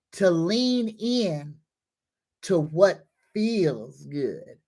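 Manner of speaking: slow, drawn-out affirmation for listeners to repeat. Shown as a demonstration. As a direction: lead the affirmation slowly, spacing the words. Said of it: "repeat this affirmation with me".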